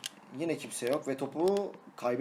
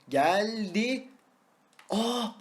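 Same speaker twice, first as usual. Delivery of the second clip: excited cry; 7 semitones higher, 3 dB louder, much slower than usual. Real, not acted. Gol anında yükselen ses.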